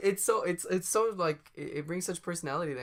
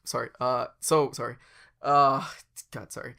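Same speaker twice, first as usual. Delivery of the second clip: apologizing businessman; 7 dB louder than usual. Pretend. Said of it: "continually apologizing".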